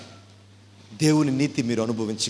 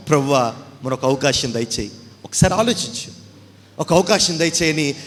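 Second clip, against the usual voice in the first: pleading souls; 2 semitones higher, 4 dB louder than usual. Acted. Lost souls begging God for mercy. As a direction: beg for one more chance.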